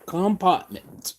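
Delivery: compartment said slowly the wrong way, as "compartment" for department; drawn-out mock of compartment; mocked mispronunciation. Showing how workers say it wrong, slow mock compartment. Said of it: "they'll pronounce the shit wrong".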